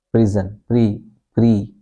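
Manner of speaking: "pre" as a long PREE. Shown as a demonstration. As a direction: say "prison" as PREE-zen, then "pre" as PREE. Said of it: "It's a long sound".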